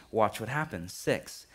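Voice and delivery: usual speaking voice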